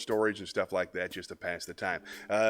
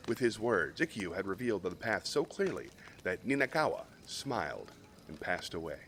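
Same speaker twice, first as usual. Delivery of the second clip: calm, even storytelling voice; story narration. A narrator's reading. Reads a Zen story aloud.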